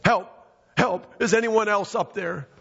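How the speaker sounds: high-pitched call at moderate volume; mock yell for help. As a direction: call up high for someone else, without full force. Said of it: "Finally, Jack yelled".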